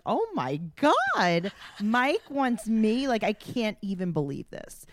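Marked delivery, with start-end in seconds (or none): 0.0-3.1 slow, high, dreamy gush; slowed-down lovestruck squeal; mock swoon. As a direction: savor each word like a crush come true. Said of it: "And I'm like".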